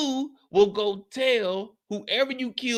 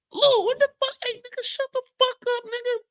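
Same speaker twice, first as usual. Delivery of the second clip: furious high yell; 14 semitones higher than usual. Acted. Neighbor shouting at Lou to shut up, high furious yell. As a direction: shout him down hard.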